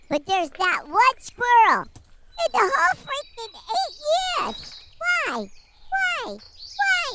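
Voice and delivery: high squeaking outburst, rising to a shriek; squeaky squirrel rant. Pretend. Squirrel character rants, squeaky outburst.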